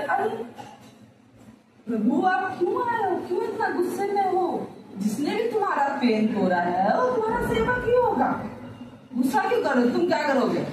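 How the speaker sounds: sweet, coaxing plea; gentle and loving. Retold or imitated. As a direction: Ram calming the angry sage, gently. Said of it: "इतना प्यार से बोल रहे".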